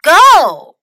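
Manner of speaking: loud, high race-start call; shouted starter's call for a race; cried out. A narrator's reading. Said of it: "cried Fox".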